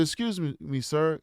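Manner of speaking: lightly acted respectful youngster; respectful kid. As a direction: excuse yourself politely to an elder. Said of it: "I said it just like this 'cause I was a very respectful kid".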